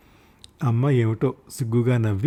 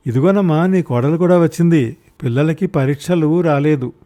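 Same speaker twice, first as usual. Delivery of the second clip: put-on louder, higher, speaking up to a deaf old mother; raised voice; 4 semitones higher, 4 dB louder than usual. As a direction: call it out clearly so she hears. (వృద్ధ తల్లికి వినిపించేలా గట్టిగా)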